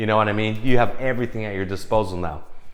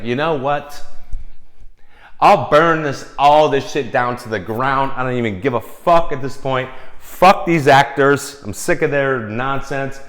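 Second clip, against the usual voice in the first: higher, louder furious rant; mock meltdown; 4 semitones higher, 5 dB louder than usual. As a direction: rage and burn it all down.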